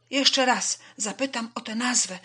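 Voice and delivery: high, loud swallow voice; volunteer loudly and eagerly; calling out. A narrator's reading. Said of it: "zawołała jaskółka".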